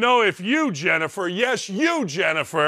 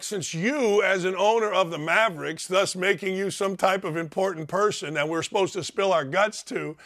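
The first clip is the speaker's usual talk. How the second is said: ordinary talk, nothing marked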